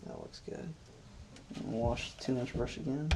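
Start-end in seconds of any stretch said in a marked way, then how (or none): 0.1-0.7 hushed, breathy whisper of approval; gentle painting instructor. Acted. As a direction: murmur it softly like a calm TV painter. Soft aside while painting.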